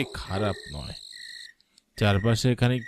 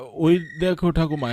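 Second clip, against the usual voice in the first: excited call; 7 semitones higher, 5 dB louder than usual. Acted. Grandson calls grandma, spotting shop.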